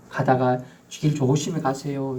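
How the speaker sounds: slow, kind farewell; gentle blessing. Shown as a demonstration. Preacher showing a blessing farewell, slow and gentle. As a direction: wish them a safe trip. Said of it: "이렇게 말해요".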